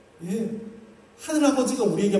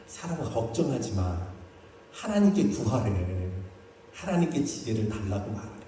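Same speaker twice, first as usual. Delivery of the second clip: low, softened fatherly comfort; retelling a father calmly consoling his child; gentle reassurance; 6 semitones lower, 4 dB quieter than usual. Retold or imitated. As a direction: soothe softly, in a lowered voice.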